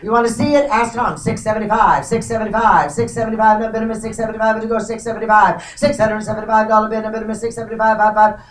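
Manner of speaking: rapid rhythmic auction chant; auctioneer. Real, not acted. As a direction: rattle off the bids like an auctioneer. Live auction bid calling.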